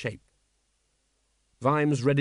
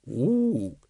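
ape hoot. Acted. Librarian answers the ape question.

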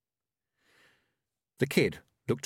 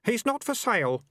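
put-on higher, lighter young boy voice; boy's voice; 13 semitones higher than usual. A narrator's reading. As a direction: voice the kid a touch higher. Kid character voice.

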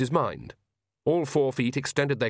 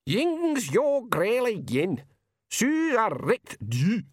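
very high, slow Scots pixie; tiny pixie voice; 11 semitones higher, much slower than usual. Acted. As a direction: squeak it like a wee man. The tiny Feegle speaks.

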